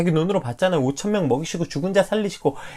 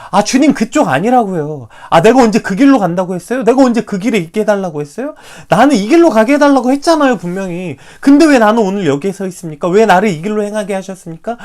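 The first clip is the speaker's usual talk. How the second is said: loud, higher indignant protest; Peter protesting; 5 semitones higher, 7 dB louder than usual. Retold or imitated. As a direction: argue back at the Lord, scolding him. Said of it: "이렇게 항변하고 따지고".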